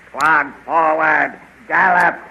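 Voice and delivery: loud rising cavalry orders; shouted command. Acted. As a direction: bellow it to the mounted squad, drawn out and then loud. King commands the riders to ride.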